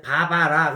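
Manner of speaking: 바바라 said from the throat, even syllables; Korean throat voice. Shown as a demonstration. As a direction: keep 바바라 flat and throaty. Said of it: "우리나라는 목으로 내자".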